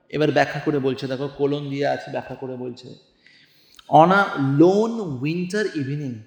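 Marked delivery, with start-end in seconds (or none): 3.9-6.1 slow, drawn-out recitation of verse; slow poetry reading. Shown as a demonstration. Teacher reading the poem to the class, slow and measured. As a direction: read the line slowly, savouring each word.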